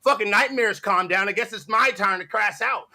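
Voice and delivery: normal talking voice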